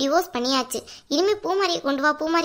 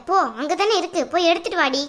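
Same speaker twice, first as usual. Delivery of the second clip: sharp scolding order; 3 semitones higher than usual. Acted. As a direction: snap the order at her. Mother scolding daughter to fetch ring.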